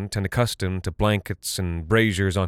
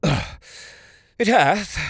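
character voice; 11 semitones higher than usual. Acted. Talarn remarks on the music.

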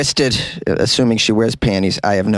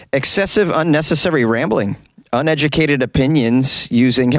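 mocking read of a review; 3 semitones higher than usual. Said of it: "She wrote".

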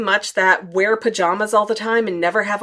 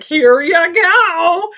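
very high, loud, slow chirp; awkward eager offer; 8 semitones higher, 9 dB louder, much slower than usual. Retold or imitated. Vlogger handing stickers to the fan, loud and eager. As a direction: shove it at her with nervous glee. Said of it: "found some little stickers like".

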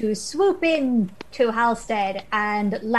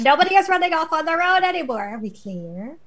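stern lecture; 5 semitones higher than usual. Acted. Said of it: "a very stern motherly lecture".

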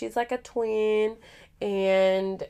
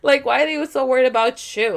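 retold furious rant; 6 semitones higher, 4 dB louder than usual. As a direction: rant at the counselor, pitched way up. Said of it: "I was so mad".

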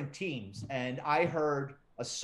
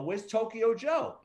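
joking; 6 semitones higher, slower than usual. Retold or imitated. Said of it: "I made a joke of it".

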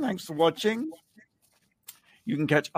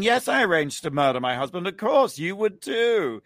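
higher-pitched mock confession, matter-of-fact; imitating an unrepentant interviewee; 4 semitones higher than usual. Host imitating the convicted wife's interview, unrepentant. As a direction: play her justifying herself without remorse. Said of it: "She's sitting there basically saying".

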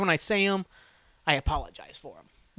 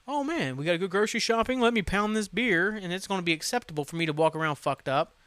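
mocking voice; 3 semitones higher than usual. Mocking drunk Americans.

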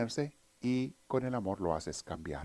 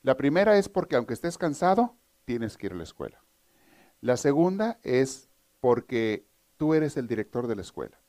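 mother's punchline; 3 semitones higher than usual. Retold or imitated. Joke mother answers her forty-year-old son, firm. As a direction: lay it out to him like a no-nonsense mom. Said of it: "la mamá le contesta".

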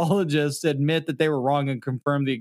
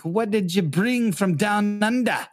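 put-on a failed, slow stab at an Australian accent; attempted Australian accent; 5 semitones higher, slower than usual. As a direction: drag out a bad Australian accent. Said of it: "That is not an Australian accent".

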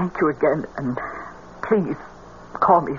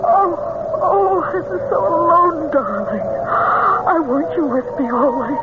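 aching; 5 semitones higher than usual. Acted. Mother pleads to son.

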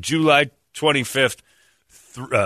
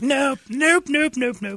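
mock refusal; slower than usual. Refusing the doctor.

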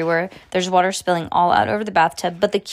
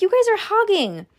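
put-on high-pitched child character complaint; much higher young sibling voice; protesting kid; 13 semitones higher than usual. A narrator's reading. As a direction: complain like a left-out little brother. Kid complains about the others.

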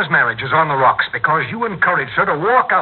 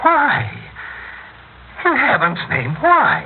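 anguished cry; 7 semitones higher, slower than usual. Acted. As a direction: cry out in disbelief. Husband's angry disbelief.

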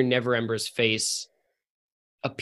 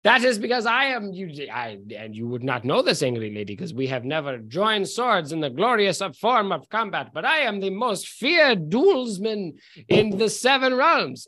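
pompous swagger, a touch higher; boastful drunk noble; 3 semitones higher than usual. Acted. Drunk noble boasting to the angry lady, pompous. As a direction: brag grandly of your dueling.

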